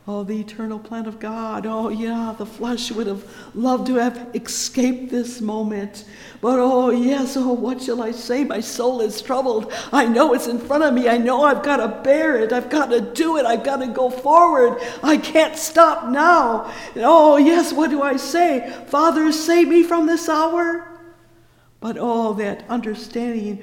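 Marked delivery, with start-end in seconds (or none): 2.9-16.7 loud, rising preacher's cry; preaching at full force. Acted. 17.0-18.7 loud, rising preacher's cry; preaching at full force. Acted. 18.9-20.9 Father, save me from this hour shouted high and loud; preached cry. Acted.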